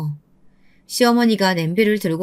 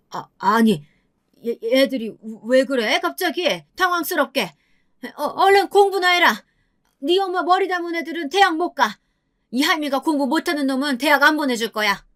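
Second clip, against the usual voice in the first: put-on higher, stammering old woman caught off guard; flustered grandmother; 5 semitones higher than usual. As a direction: bluster to cover her panic. 당황한 시어머니. (손주들 반발에 당황해 더듬는 할머니 목소리)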